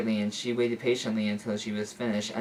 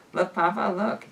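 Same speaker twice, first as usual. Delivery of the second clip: put-on excited little girl; 8 semitones higher, 3 dB louder than usual. A narrator's reading. Little girl calling her father.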